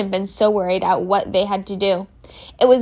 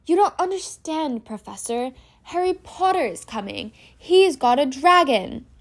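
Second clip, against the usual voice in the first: put-on higher whining boy; pleading Malfoy; 5 semitones higher than usual. Malfoy pleading with the professor, higher and whiny. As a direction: beg to be believed.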